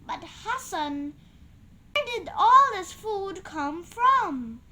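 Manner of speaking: rising to a loud, stunned question; mother stunned by the feast. A narrator's reading. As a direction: blurt it out in amazement. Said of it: "Hassan's mom was stunned".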